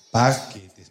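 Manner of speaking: paquetes dropped low and drawn out; deep cue word. Shown as a demonstration. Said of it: "Cada vez que yo diga paquetes". (paquetes en tono grave y marcado)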